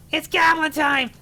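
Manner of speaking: high, loud goblin announcement. Acted. Streamer kicking off goblin voice for chat, loud and high. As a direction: bellow it like a gleeful goblin. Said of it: "this voice makes me wheeze".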